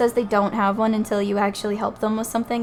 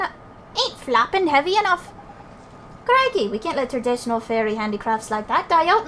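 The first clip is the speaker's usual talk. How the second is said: bouncy, colloquial character dialogue; game character banter; 3 semitones higher than usual. Acted. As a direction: play a chummy, animated fairy greeting an old pal.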